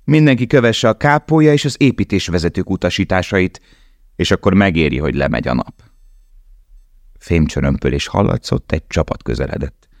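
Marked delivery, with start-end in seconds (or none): 0.0-5.8 stern guard. Acted. Guard addressing prisoners.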